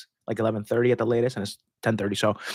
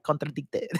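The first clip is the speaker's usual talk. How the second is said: "Contradicted" repeated in a mock Québécois French accent, hard drawn-out K, quieter; Quebec accent; 6 dB quieter than usual. Repeating the word to the chat in a mock Quebec accent. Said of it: "a Quebecois accent".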